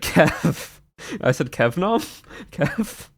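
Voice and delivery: laughing while echoing a friend's "Kev"; laughing mimicry. Teasing Nom about his accent, laughing disbelief. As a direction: tease him, breaking into a laugh. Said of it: "And I laughed and said".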